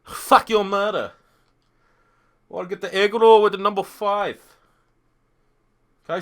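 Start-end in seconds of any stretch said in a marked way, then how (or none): 0.0-1.1 slow, higher put-on Asian accent; drawn-out mock Asian-accented curse. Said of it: "Do your best Asian accent". 2.5-4.4 higher, louder put-on Asian accent; mock Asian-accented food order. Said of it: "Do your best Asian accent".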